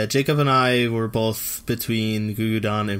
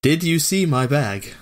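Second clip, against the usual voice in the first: slow, flat deadpan question; monotone reading; 3 semitones higher, slower than usual. Shown as a demonstration. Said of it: "my monotone, uh, voice".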